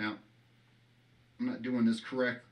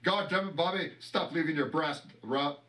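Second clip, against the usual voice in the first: a light, slightly raised Hank Hill twang on the scolding; Hank Hill impression; 5 semitones higher than usual. Redoing the Hank Hill line for the camera, lightly voiced. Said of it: "let me do it again".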